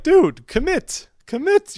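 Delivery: high, slow, pleading; exasperated plea. Retold or imitated. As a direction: beg him to just commit. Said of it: "and you're like".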